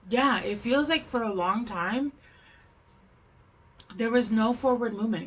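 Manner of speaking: talking through hiccups; words broken by hiccups. Real, not acted. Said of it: "I don't know why I have the hiccups".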